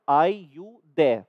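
"Are you there?" very slow, the r gone from are and there. Shown as a demonstration. Teacher demonstrating the American "Are you there?" slowly. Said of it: "देयर में से आर गायब कर दिया".

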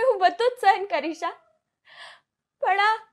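put-on a sick girl comforting her mother, fragile and brave; dying daughter. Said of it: "આ mono act perform કરવાનો chance આપ્યો".

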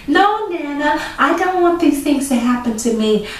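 put-on loud model line for kids to echo; repeat-after-me line. Shown as a demonstration. Nana giving children a line to repeat. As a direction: say it for the children to copy.

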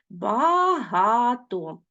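very slow, each syllable spaced apart. Shown as a demonstration. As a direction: spell out Безпідставний slowly by syllables. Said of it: "teacher splits word into syllables". (повільно, по складах)

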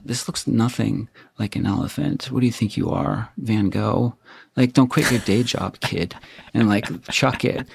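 lightly voiced belittling stepfather; dismissive, sneering put-down of a child; mimicking stepfather. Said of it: "That's like my stepfather's voice. I'm mimicking him".

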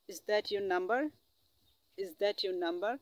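slow, careful English question; slow teaching demo. Shown as a demonstration. Teacher modelling a question for students, slowly. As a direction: say each word slowly for the learner. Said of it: "এইভাবে practice করতে হবে".

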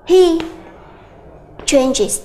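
He changes with a clear iz ending; teacher's English demo; English example. Shown as a demonstration. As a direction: model the third-person form. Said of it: "chuyển sang anh ấy thay đổi".

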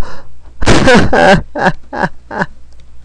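high-pitched laughing fit. Real, not acted. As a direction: laugh with relief. Laughs after tense moment.

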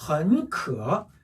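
헌커 slowly, 헌 rising as a second tone; 앞 삼성을 이성으로. Shown as a demonstration. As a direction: lift 헌 and dip 커 in a slow 헌커. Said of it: "앞에를 이성으로 읽어준 거고요". (헌커의 헌을 이성으로 천천히 올려서)

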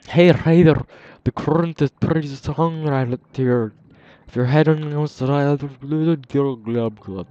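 gurgling voice ending in glub sounds; underwater voice. Pretend. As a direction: talk like you're speaking underwater. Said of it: "I'm gonna stop my underwater voice".

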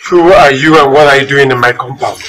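loud, demanding challenge to intruders; stern challenge. Acted. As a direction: confront the strangers loudly. Blind man challenges intruders.

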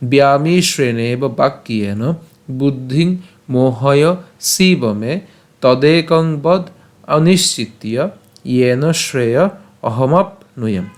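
slow spoken verse, phrase by phrase; pronunciation run-through. Shown as a demonstration. Teacher repeating from the start, careful pronunciation. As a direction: say the shloka deliberately, pausing after each phrase. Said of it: "প্রথম থেকে উচ্চারণটা করি".

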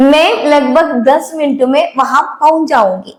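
slow, careful Hindi model reading; teacher reading a Hindi sentence slowly. Shown as a demonstration. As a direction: spell it out slowly for learners. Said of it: "ഇനി അതുപോലെ തന്നെ".

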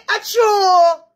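high excited shout. Pretend.

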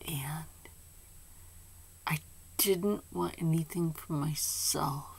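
tearful whisper, fighting back tears; thanking someone, whispering through tears; crying whisper. Real, not acted. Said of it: "And I'm still crying".

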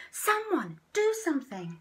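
high, loud frantic shout. Acted. Sea Cucumber shouting for help, frantic. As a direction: yell for help. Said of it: "shouted Sea Cucumber".

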